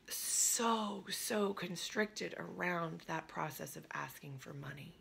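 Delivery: constricted whispered voice; tight whisper. Shown as a demonstration. Coach showing how constricted asking for money feels, whispered. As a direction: squeeze the voice down to a whisper.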